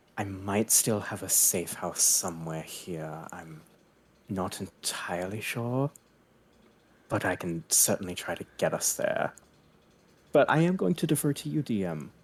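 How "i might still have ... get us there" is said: very quiet, barely-there hushed half-whisper. A player's character half-whispers to Ismark during the game: hushed half-whisper. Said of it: "in a hushed voice, whisper to Ismark".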